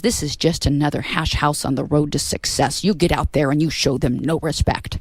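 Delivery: slow, firm pep talk; a touch of stern mentor. Retold or imitated. A singer to nervous opener, slow firm command. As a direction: lay down orders slowly. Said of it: "He goes".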